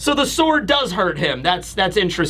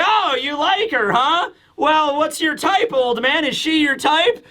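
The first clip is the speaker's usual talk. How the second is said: retold teasing; 6 semitones higher than usual. Retelling Usopp teasing the giant.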